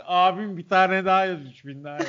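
high, rowdy reveler egging on the cop; hammed-up stoned fan, pitch up; stoner. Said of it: "herkesin kafası iyi olacak".

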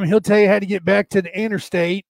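folksy Southern country directions; light backwoods Southern accent. Acted. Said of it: "It's always some Southern accent".

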